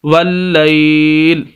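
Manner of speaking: वल्लैल ending on a silent ल, very slow; वल्लैल with a doubled ल and a bare final ल; pause form. Shown as a demonstration. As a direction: stop वल्लैल dead on the ल. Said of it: "लाम को हम साकिन कर देंगे तो वक्फ़ हो जाएगा".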